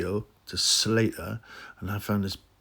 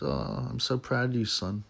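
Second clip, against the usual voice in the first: mock proud mum; 7 dB quieter than usual. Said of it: "what do they tell their mum".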